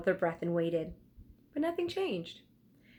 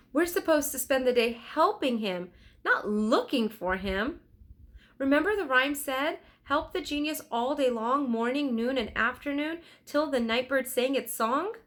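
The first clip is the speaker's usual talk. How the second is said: put-on high, earnest girl's voice; lightly voiced eager girl reminding her brother; young girl Annie; 6 semitones higher, 3 dB louder than usual. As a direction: Annie insisting to Jack, earnest. Annie's voice in story.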